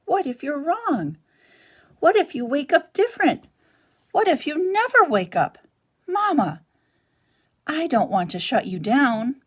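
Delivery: put-on scared child pleading, climbing in pitch; frightened gosling. A narrator's reading. Gosling frightened for his mama.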